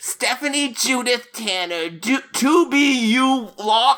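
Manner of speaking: creepy ghoul voice, pitched very high. Voicing a ghoul character, in a creepy Crypt Keeper voice. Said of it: "you sound like the Crypt Keeper".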